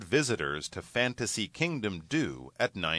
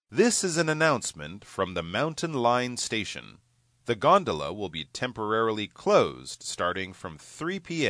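station announcement. Acted. Gondola closure station announcement.

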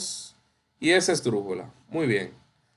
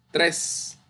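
"tres" said alone with clear stress; teacher singling out "tres"; stressed syllable TRES; 3 semitones higher than usual. Shown as a demonstration. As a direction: isolate "tres" as the accented syllable. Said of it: "lleva tilde".

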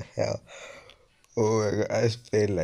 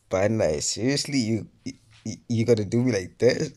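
loud, higher outraged whine; indignant complaint; 3 semitones higher, 7 dB louder than usual. Real, not acted. Gamer blaming Bandai for bad luck, loud indignation. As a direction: demand an answer from Bandai.

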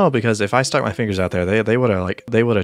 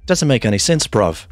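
mock British gamer slang, lightly done; a casual British lad voice, not too strong; British accent. British accent while narrating his own gameplay. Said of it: "Speak British 'cause the main character is British".

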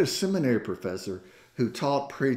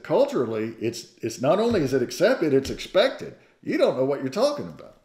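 mildly raised, insistent protest; objecting; 4 semitones higher, 4 dB louder than usual. Retold or imitated. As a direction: imitate preachers pushing back, a touch emphatic. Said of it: "were just objecting".

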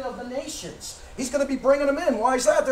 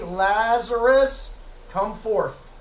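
Lord calling; much slower than usual. Retold or imitated. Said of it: "he turns around and he says".

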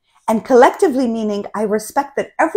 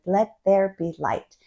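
mantra; 4 dB quieter than usual. Shown as a demonstration. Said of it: "That's a cool mantra".

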